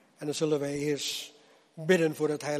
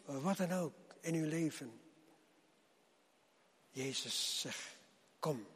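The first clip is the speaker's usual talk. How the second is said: preaching. Acted. Preacher addresses the congregation.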